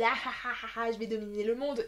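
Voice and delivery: a hint of a cackling villain; lightly voiced evil laugh and boast. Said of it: "elle a une voix de méchante".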